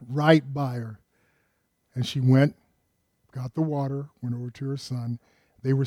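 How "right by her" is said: awed whisper. Real, not acted. Preacher marvelling to the church at the well, in a hushed whisper. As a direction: breathe "Right by her" as an unvoiced whisper. Awed echo after laughter.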